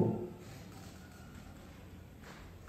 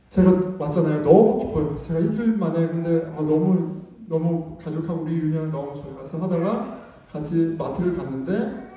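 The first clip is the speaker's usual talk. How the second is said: ordinary talk, nothing marked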